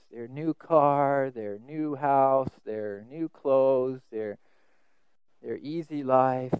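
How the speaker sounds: slow, drawn-out listing; a touch of mock envy; mock envious list. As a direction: savour each envied thing. Listing neighbours' possessions mockingly.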